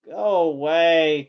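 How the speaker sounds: slow, loud grumbling grunt; the tired fire demon grunting at Hal. A narrator's reading. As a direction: grumble it half asleep. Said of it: "Calcifer grunted".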